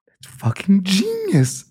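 high, slow, breathless whisper; awed whisper. Retold or imitated. Telling a friend about the trick, in an awed whisper. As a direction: hush it out like a secret marvel.

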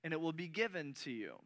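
reading the modern verse aloud; modern scripture reading. Shown as a demonstration. Pastor reads the modern translation to compare, plain reading. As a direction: read the newer verse plainly but clearly. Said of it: "It says".

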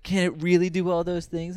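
lightly voiced infomercial skeptic; mock skeptic Fred. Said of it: "like, evil Fred".

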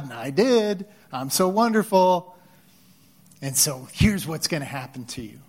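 lightly hammed-up gloating; mock gloating. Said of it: "here's what I think our natural response would be like".

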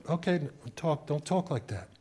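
soft, subdued echo of a rebuke; retold meek compliance. Eight-year-old repeats the adult's rebuke, meek and soft. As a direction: repeat it softly, as a child giving in.

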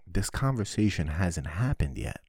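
ordinary talk, nothing marked

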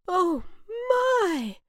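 high, loud gasp of wonder; amazed. A narrator's reading. Cloud first sees its own rainbow, amazed. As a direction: stretch the second word up high in awe.

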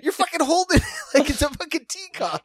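laughing while scolding. Retold or imitated. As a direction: crack up mid-sentence. Laughing at friend's cocaine handling.

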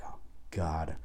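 embarrassed whispered oh God; whispered groan. Retold or imitated. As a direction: whisper it under your breath. Retold frustration after falling.

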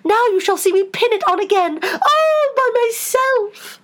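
very high, crowing Queen; triumphant. A narrator's reading. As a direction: boast it high, stretching the ending. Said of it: "cried in a triumphant tone".

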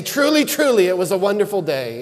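a lightly hammed-up solemn "truly, truly"; mock formal reply. Pastor answers wife "how was your day", mock biblical pomp. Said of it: "that's not how we talk".

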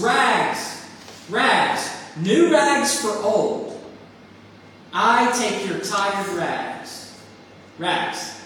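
put-on loud street-vendor call, slow on new rags for old. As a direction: call out your wares down the alley. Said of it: "he was calling in a clear tenor voice".

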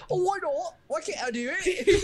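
high, pleading and whiny; whiny mock plea. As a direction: beg like a sulky kid. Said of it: "Allison just goes".

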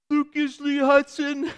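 put-on high, slow small-boy recital; little boy voice. Dad imitating his son reciting his full name. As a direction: say it like a proud little kid.

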